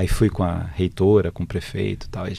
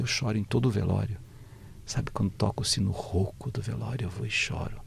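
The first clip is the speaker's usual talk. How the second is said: hushed, quieter, tearful confession; a soft tearful man at a wake; 9 dB quieter than usual. Retold or imitated. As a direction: let the voice sink as if holding back tears. Cícero crying while telling.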